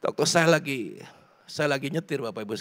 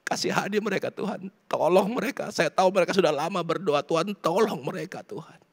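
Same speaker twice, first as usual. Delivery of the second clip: retold crying prayer; 4 semitones higher than usual. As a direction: plead for others as if weeping. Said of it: "Saya nangis". (meniru doa sambil menangis)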